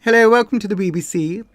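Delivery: Received English, like a BBC announcer; Received English accent. Shown as a demonstration. Demonstrating the trained accent to viewers, Received English. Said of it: "Received English".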